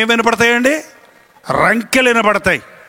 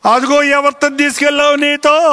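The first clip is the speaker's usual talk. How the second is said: suspicious interrogation; 5 semitones higher than usual. Acted. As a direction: lightly act a suspicious interrogator. Acted interrogation over bus tickets.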